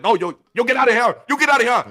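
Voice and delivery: high, loud mock yell; acted rising holler; worker ordering him out. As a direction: shout an intruder out from behind the counter. Worker throwing someone out, acted.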